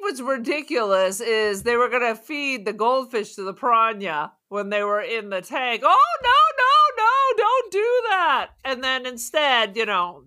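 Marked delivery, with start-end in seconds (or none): 5.8-8.5 high, slow, pleading "oh no"; hammed-up high alarmed plea; mock panicked protest. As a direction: squeal it like a frightened lady begging. Voicing the lady protesting.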